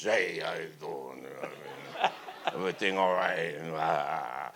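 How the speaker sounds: slow gruff little boss greeting; slow, a touch of the tough club owner; Podell impression. Club owner greets the young singer, slow and gruff. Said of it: "He talked like this".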